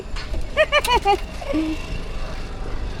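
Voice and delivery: high, soft trailing laugh; amused laugh. Real, not acted. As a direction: laugh softly and let it run on. Laughs after waving dog goodbye. (हलकेच, उंच आवाजात हसत राहणे)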